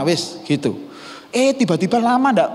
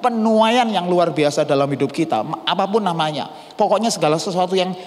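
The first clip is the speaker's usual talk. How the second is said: normal talking voice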